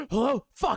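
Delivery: acted breathlessness. Retelling answering a phone call after shoveling: imitating being out of breath. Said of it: "I couldn't slow down my breath at all".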